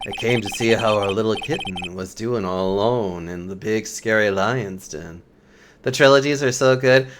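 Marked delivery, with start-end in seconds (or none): 0.1-5.2 smooth rival prosecutor. Acted. Rival prosecutor teasing the nervous lawyer, low and smooth. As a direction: purr it like a smug rival.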